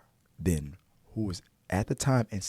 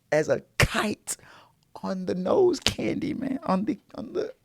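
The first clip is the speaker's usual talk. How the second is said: hushed aside; 12 semitones higher than usual. Real, not acted. Hushed punchline.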